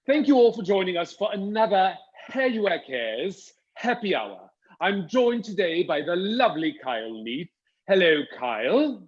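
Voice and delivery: put-on British accent of a show host; copied British accent. Host greets viewers copying the co-host's accent, put-on British. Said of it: "Are you trying to copy my accent?".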